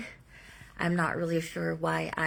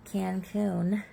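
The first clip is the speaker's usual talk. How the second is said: talking through fake teeth; fake buck teeth. Real, not acted. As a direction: speak around false teeth. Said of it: "I got my fake teeth in".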